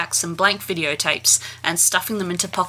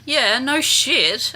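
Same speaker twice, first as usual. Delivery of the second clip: sarcastic; 5 semitones higher, much slower than usual. Real, not acted. Sarcastic reply.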